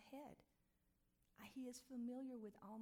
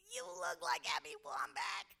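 daughter crying; 13 semitones higher, 11 dB louder than usual. Retold or imitated. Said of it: "starts bawling".

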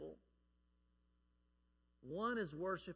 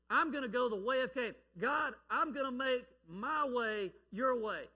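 voicing Cain; 5 semitones higher, 6 dB louder than usual. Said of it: "And yet, what did he do?".

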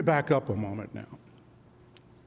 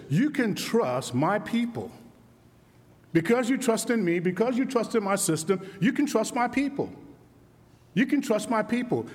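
God's reassurance, building; 5 semitones higher than usual. Acted. Preacher voicing God, building.

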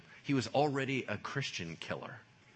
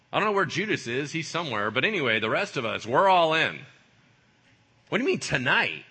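raised voice, mock indignation; insistent protest; 4 semitones higher, 8 dB louder than usual. Disciples assure Jesus they are all in, protesting. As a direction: insist loudly that the group is loyal.

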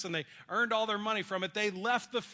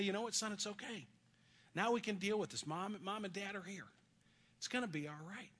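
softer, gentle father's reassurance; tender comfort; 3 semitones higher, 6 dB quieter than usual. Retold or imitated. Father telling his struggling son it's okay, tender. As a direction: hold him close with your voice.

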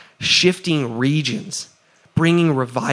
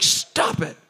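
whispered stop. Retold or imitated. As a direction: breathe it out as a firm whisper. Rebuking mind calling him loser.

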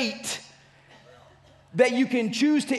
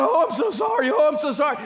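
overdone pleading sorry, pitched up; mock sorry wail; 4 semitones higher than usual. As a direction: ham up a begging sinner's wail. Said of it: "if you run to God".

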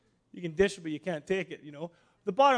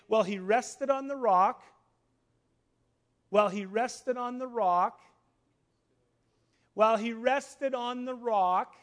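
"rested on the rock" slowing and rising with each repeat; emphatic repetition; 3 semitones higher, 5 dB louder, slower than usual. Real, not acted. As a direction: drive home "rested on the rock", more deliberately each time. Preacher repeats key phrase for emphasis.

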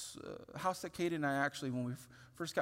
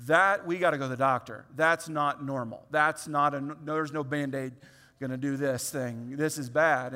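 louder, urgent father voice; alarmed insistence; 7 dB louder than usual. Retold or imitated. Father telling his wife they must see a doctor, loud and alarmed. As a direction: push it out like a scared dad.

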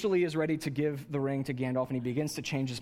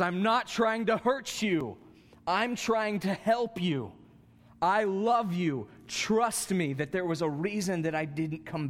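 a hint of Gandalf, earnest and tender; Paul as Gandalf; 3 semitones higher, slower than usual. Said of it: "Paul has become Gandalf, ... he says".

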